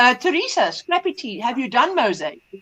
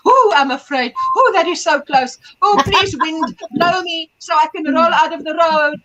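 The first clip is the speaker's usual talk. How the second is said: voicing a can; 2 semitones higher than usual. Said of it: "talking as if I'm the Coca-Cola can".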